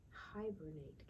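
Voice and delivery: Hibernate said clearly with falling end; model word. Shown as a demonstration. Teacher modelling Hibernate for the class to copy. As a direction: model Hibernate for them to repeat. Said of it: "Can you say that word?".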